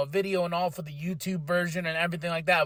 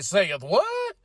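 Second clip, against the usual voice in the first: mock disbelief; slower than usual. Acting out his own surprised reaction.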